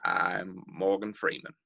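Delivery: low, slow celebrity voice; Morgan Freeman impression. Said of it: "Yeah, yeah, go".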